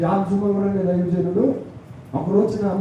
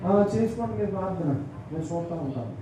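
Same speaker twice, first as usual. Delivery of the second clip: dismissive brush-off; 7 dB quieter than usual. Retold or imitated. Mocking lazy churchgoer.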